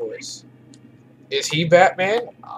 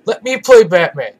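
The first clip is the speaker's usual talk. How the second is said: Batman voice; 3 semitones higher, 6 dB louder than usual. Pretend. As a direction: play it as the caped hero. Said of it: "I'll use my regular, very low".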